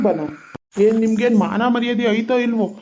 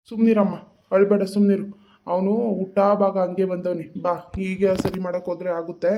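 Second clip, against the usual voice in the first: consoling; 2 semitones lower, 3 dB quieter than usual. Acted. Consoling a crying woman after quarrel. (ಸಮಾಧಾನ ಮಾಡುವ ತಗ್ಗಿದ ದನಿ)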